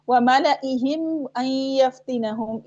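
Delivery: recited "मलाइहिम" as mala-ihim; silent-alif recitation. Shown as a demonstration. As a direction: chant "मलाइहिम" without lengthening the alif. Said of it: "ऐसे ही पढ़ना है".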